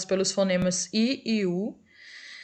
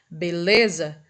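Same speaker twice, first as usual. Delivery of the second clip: "beleza" with LE held longer, lower pitch; stressed middle syllable; 4 semitones lower, slower than usual. Shown as a demonstration. Teacher asking which syllable lasts longest, "beleza" stressed on LE. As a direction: linger on the le of "beleza". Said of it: "qual é a sílaba que demora mais?".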